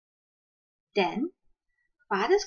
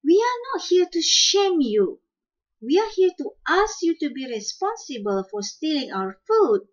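high, loud birdlike squawk; father quail squawking at the shrews; 7 semitones higher, 4 dB louder than usual. Acted. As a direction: squawk it out like an angry bird. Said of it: "Father Quail squawked".

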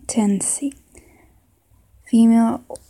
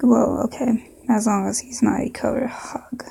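put-on Southern accent, whispered rehearsal. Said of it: "maybe a southern accent".

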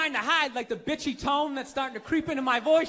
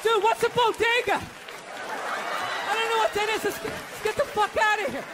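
mock panicky white guy; 8 semitones higher than usual. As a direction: play a scared tourist lost uptown.

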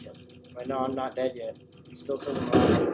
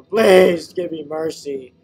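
slow mock plea; 10 dB louder, much slower than usual. Begging captor.

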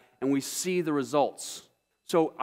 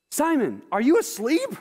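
high, startled question, rising on you; can't believe they fell asleep; genuine surprise; 8 semitones higher, 4 dB louder than usual. Acted. Jesus finding Peter asleep, high surprised question. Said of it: "There's genuine surprise there".

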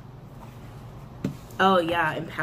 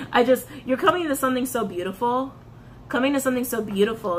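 moved, tearful laugh; 3 semitones higher, faster than usual. Real, not acted. Moved by the reading.

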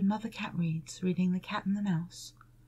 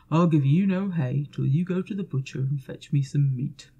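low, loud, grumbling farmer; gruff farmer; 6 semitones lower, 8 dB louder than usual. Acted. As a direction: boom it out like a stern farmer. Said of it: "said the farmer".

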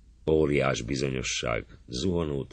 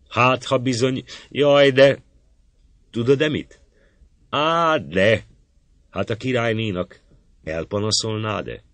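much higher, breathless, rushing to tell a secret; a young maid blurting out advice, then stopping herself; eager girlish whisper-talk; 9 semitones higher, 7 dB louder than usual. A narrator's reading. A maiden urges her friend to tell the queen, eager and high. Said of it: "Néha egy-egy tanács indul egész hévvel".

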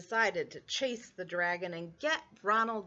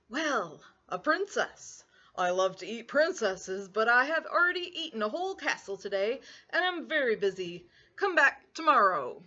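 a hint of a grumpy dragon, bigger on the last line; lightly voiced dragon; 4 dB louder than usual. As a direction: lightly play the smug, busy dragon. Dragon voice in story.

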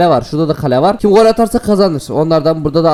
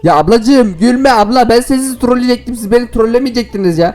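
giggling through the words, higher; laughing while talking; 7 semitones higher than usual. Real, not acted. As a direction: talk as laughter breaks in. Laughing at his own makeup.

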